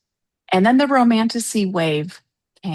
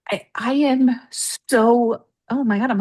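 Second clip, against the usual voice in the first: getting emotional; 4 semitones higher, 3 dB louder than usual. Real, not acted. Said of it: "like, tearing up".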